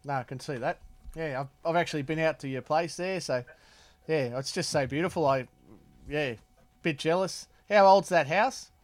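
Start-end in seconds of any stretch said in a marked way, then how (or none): none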